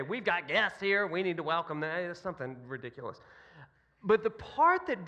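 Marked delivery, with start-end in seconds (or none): 0.0-2.1 tag of imitated old woman. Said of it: "she would always say".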